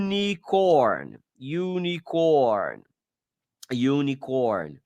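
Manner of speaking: unicorn said slowly, starting with a "you" glide; slow careful unicorn; English unicorn. Shown as a demonstration. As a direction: stretch out unicorn so the Y sound is clear. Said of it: "ele tem um som de Y".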